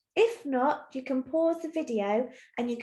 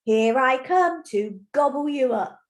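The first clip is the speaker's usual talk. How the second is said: loud troll threat; loudly scare the goats, storybook style; shouting scary troll; 5 dB louder than usual. Acted. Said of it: "he's shouting again, trying to scare those goats".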